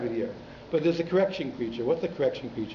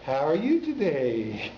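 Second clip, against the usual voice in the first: Texan singsong; slower than usual. Retold or imitated. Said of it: "they sing when they talk".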